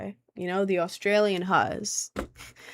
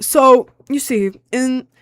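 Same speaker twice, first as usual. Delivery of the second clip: mock Australian accent; 4 semitones higher, 7 dB louder, slower than usual. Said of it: "how do you do an Australian accent".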